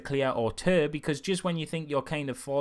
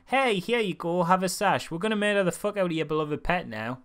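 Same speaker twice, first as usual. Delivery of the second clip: lightly put-on breezy, higher voice; mock cheerful announcer; 5 semitones higher than usual. Mocking the contest organisers to a pig's owner, mock cheerful. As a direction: brush it off with fake cheer.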